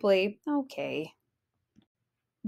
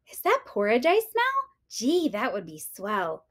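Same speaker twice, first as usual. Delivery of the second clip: put-on little girl voice. Goldie smells porridge.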